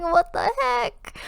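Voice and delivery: high, slow startled question; surprised. Real, not acted. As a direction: caught off guard by the mistake. Surprise at the drawing mistake.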